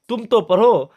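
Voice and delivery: mock angry order to read; angry teacher. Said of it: "मौलवी साहब को गुस्सा आ गया".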